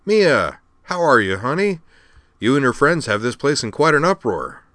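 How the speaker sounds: high, loud, effusive greeting; delighted. A narrator's reading. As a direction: gush at someone you're pleased to see. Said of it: "said Al delightedly".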